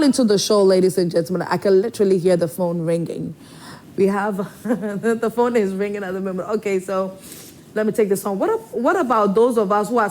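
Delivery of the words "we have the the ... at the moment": laughing through the words. Real, not acted. Host laughs at ringing phone.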